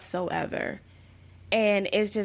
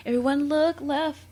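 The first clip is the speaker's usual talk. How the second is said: higher-pitched mock excited call; excited movie line; 5 semitones higher than usual. Friend showing how the movie line should sound, mildly excited. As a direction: lightly act out an excited character.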